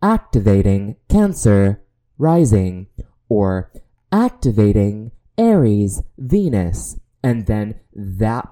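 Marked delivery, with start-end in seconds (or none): 0.0-2.9 loud, even robot announcement; alien robot voice. Shown as a demonstration. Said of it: "you hear in the alien robot voice". 4.1-7.0 loud, even robot announcement; alien robot voice. Shown as a demonstration. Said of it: "you hear in the alien robot voice".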